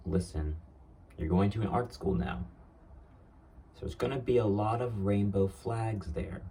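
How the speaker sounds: a hint of a warning dad; father's warning. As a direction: retell a father's cautioning, lightly acted. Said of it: "he was giving me this warning".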